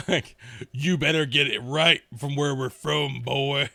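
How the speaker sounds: slow put-on Kiwi accent, warning; mock Kiwi accent. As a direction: mimic a Kiwi telling him off, slowly. Mimics a viewer from down under.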